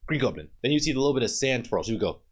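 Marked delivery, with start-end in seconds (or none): 0.1-0.5 put-on Spanish accent. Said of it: "that's why that accent".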